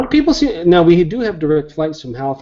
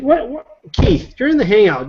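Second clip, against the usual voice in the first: mock surprise; 10 semitones higher than usual. Real, not acted. Host catches friend commenting.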